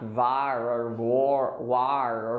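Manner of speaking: "war" mispronounced as var, gwar, wahr; wrong versions. Shown as a demonstration. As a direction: run through bad versions of "war" with an AH vowel. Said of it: "or something".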